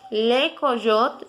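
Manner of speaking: Le coyote repeated slowly in French. Shown as a demonstration. Teacher repeating Le coyote slowly for students. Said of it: "lo vamos a pronunciar".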